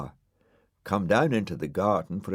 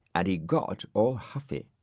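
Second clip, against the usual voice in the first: plain reading voice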